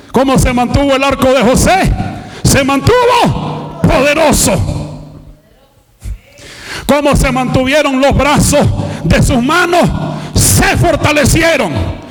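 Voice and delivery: full-force sermon building to a high shout; fiery preaching. Real, not acted.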